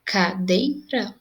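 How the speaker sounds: "Cadeira" said slowly, syllable by syllable; "Cadeira" sounded out slowly for the class; split into syllables. Shown as a demonstration. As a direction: spell out "Cadeira" in slow beats. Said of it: "nós temos três sílabas".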